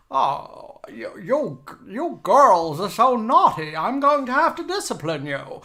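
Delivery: high, slow mock-stern matron; Aunt Lydia. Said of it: "Shall I do my Aunt Lydia now?".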